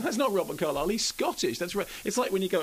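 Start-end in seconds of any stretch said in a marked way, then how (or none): 0.0-1.6 higher-pitched imitation of an objecting listener; acting out a puzzled objection; mock protest.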